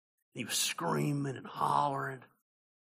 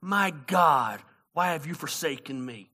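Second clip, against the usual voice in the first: mild crying out; slower than usual. Acted. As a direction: call out to God, then let the question sink. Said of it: "cried out to God".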